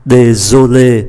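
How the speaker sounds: "Désolé" with a voiced z for the s. Shown as a demonstration. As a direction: buzz the s in "Désolé". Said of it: "S phát âm là Z". ("Désolé" đọc s thành z)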